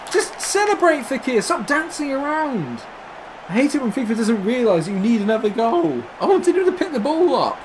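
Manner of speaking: exasperated high-pitched whining; exasperated rant. Real, not acted. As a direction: complain in a high, pained voice.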